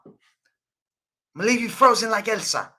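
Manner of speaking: high-pitched put-on rage; hammed-up angry threat, pitched high; mock raging. Streamer repeating the Elsa threat, mock raging. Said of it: "I think I brought the rage in that one".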